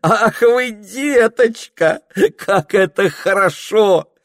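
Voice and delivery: high, loud, slow gushing through laughter; girl delighted by his wish for cake, laughing; ringing laugh. A narrator's reading. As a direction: coo at him while laughing. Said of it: "заливисто, звонко рассмеялась".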